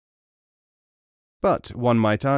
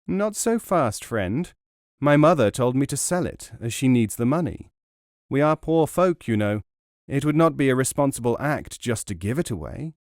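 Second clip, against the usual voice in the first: put-on light, higher youthful voice for the naive boy; foolish youth; 3 semitones higher than usual. Nasruddin refusing the traveller, lightly voiced naive youth. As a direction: play the foolish lad standing firm.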